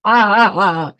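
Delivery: open, forced laugh to get going; laughter yoga laugh. Shown as a demonstration. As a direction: laugh on purpose, out loud.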